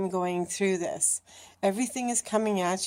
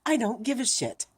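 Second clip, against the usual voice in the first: defiant; 2 semitones higher than usual. Retold or imitated. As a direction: own it without caring. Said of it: "And you're like".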